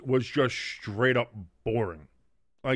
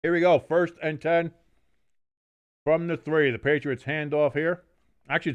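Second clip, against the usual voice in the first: play-by-play. Acted. Play-by-play call of the game.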